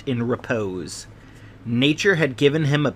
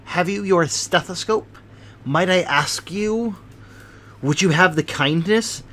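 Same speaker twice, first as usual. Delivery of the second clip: anxious hypochondriac; 2 semitones higher than usual. Acted. Sholto's voice held.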